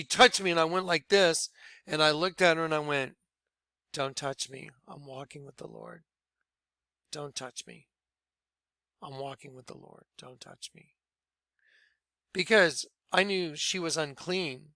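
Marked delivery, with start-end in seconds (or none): 3.9-10.9 hushed, low, barely audible; very calm. Retold or imitated. Newly saved man warding off Lou's touch, very calm and hushed. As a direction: repeat it calmly under your breath. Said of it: "very calmly just said".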